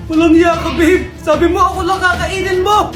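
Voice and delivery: put-on furious yell at a cheating boyfriend; angry shout. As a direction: shout the insult.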